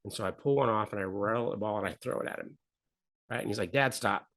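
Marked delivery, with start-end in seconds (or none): 3.7-4.3 son's first, understated objection; mild protest. Retold or imitated. Son to dad pelting him with paper balls, mild protest. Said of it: "he's getting angry".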